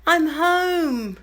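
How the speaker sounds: croaky sing-song greeting; hoarse cry. Real, not acted. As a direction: call it out with a lost voice. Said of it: "as you can hear, I've half lost my voice".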